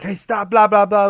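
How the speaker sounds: high, loud mock objection; mock protest. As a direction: blurt a cartoonish protest that turns into babble. Acted protest, retold game choice.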